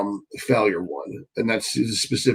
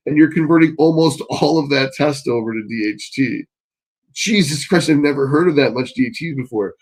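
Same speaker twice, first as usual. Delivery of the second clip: worked-up scolding; 4 semitones higher, 3 dB louder than usual. Real, not acted. Scolding a viewer's steroid cycle.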